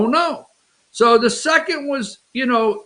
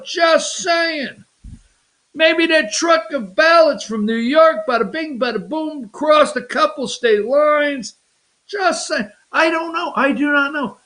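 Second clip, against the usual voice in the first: higher-pitched, insinuating New Yorker; hint at it like a New York wise guy; lightly played New York needling; 4 semitones higher than usual. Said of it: "said in a New Yorker kind of way".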